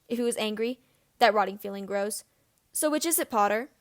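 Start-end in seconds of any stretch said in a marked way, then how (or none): 2.7-3.7 sneer. Acted. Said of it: "Snape asks with a sneer".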